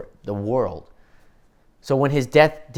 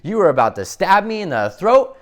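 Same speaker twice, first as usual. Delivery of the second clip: mildly freaked out; 5 dB louder than usual. Acted. Speaker as Superman confronting the man who nearly stabbed him, freaked out. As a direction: grow more disbelieving as it goes. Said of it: "I'd be really freaked out about the guy".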